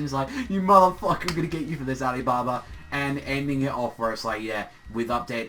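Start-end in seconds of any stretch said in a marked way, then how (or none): 0.5-2.6 retold outburst, high and loud at the start, then easing; mock angry threat; super pissed. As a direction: play at swearing revenge on a friend. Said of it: "he gets super pissed".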